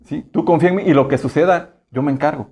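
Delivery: calm him like a loving father; mild soothing divine voice; voice of God. Retold or imitated. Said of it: "O la voz de Dios que dice".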